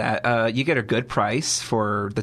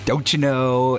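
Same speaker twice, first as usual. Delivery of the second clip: put-on Minnesota accent; 4 dB louder, slower than usual. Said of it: "I got".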